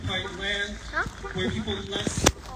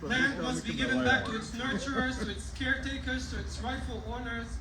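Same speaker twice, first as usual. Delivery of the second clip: impassioned rally speech; 6 semitones higher, 13 dB louder than usual. Real, not acted. Speaker at rally pleading with celebrants, higher and impassioned. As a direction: rise to a passionate plea.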